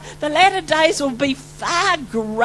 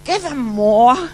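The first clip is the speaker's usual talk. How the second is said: slow, louder plea with a laugh; half-laughing cry for more; mock scream, laughing; 4 dB louder, slower than usual. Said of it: "I'm screaming at this point".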